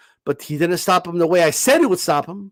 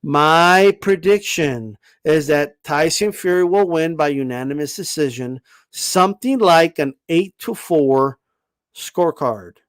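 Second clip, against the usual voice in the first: very slowly; 3 semitones lower than usual. Shown as a demonstration. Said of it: "let me say it very slowly for Maestro".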